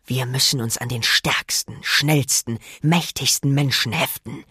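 sinister hissed villain voice; hissing villain. Acted. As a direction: plot it out like a scheming monster. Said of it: "zischte er".

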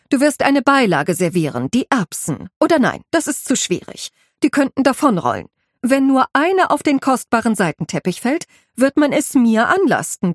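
a head housekeeper laying down the rules, firm and exacting; stern housekeeper. Housekeeper briefs the new maid on serving, stern and precise.

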